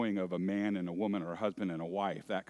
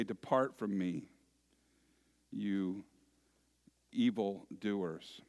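stern master; slower than usual. Acted. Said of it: "he will say".

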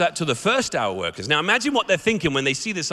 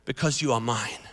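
slow, gentle father's assurance, dropping softer at the end; booming but soft. Retold or imitated. Wood carver gently reassuring the little Wemmick, slow and soft. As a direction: say it slowly, like a tender promise. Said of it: "big booming but soft voice".

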